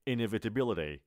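Inevitability spaced out calmly; unhurried Inevitability, each syllable clear. Shown as a demonstration. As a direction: ease through Inevitability. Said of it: "آرومتر".

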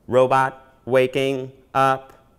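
slow, steady mechanical robot voice. Acted. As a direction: power up like a robot. Robot voice powering up.

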